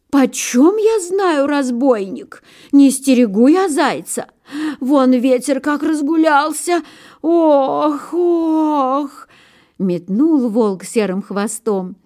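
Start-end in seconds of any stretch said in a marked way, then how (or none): 0.1-9.3 high, drawn-out grumbling groan. A narrator's reading. Old pine covers for the hare, high groaning protest. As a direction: protest in a high creaky moan.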